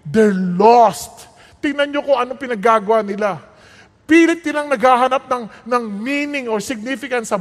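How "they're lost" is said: tender plea. Acted. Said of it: "the wisdom is telling you".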